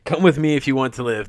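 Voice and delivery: punchy, quick movie one-liner; Arnold line delivery. Shown as a demonstration. Friend prompts him for the line, he nails it as a punchy one-liner. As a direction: nail the tough-guy action catchphrase. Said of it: "you nailed it".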